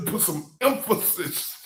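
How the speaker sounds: exaggerated "emphasis", falling away; mock emphasis. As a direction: mockingly lean on the first syllable of "emphasis". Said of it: "Oh, you want to emphasis".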